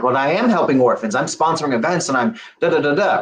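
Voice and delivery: mildly defensive protest; retold defensive self-justification. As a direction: push back, rattling off your good deeds. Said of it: "I got kind of defensive".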